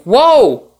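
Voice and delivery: high, loud startled "whoa"; retold startled cry. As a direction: re-enact being caught off guard, pitch jumping. Retells startled reaction to grab.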